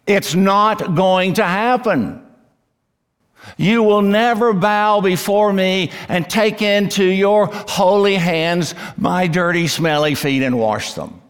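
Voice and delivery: high, forceful protest, easing toward the end; emphatic refusal. Acted. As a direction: refuse adamantly as the indignant disciple. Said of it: "The no is emphatic".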